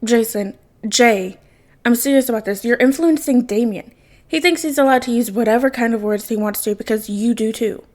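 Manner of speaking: weary, pleading father; a tired dad laying down the law. Acted. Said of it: "turn on his tired dad voice".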